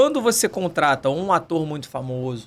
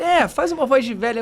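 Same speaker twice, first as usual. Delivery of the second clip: imitating friend; 10 semitones higher than usual. Friend insisting, retold.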